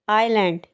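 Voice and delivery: आइलैंड said with no S sound; silent S. Shown as a demonstration. Teacher giving viewers the English word, S silent in आइलैंड. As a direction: say आइलैंड as eye-land, leaving the S silent. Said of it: "इसमें एस silent होगा".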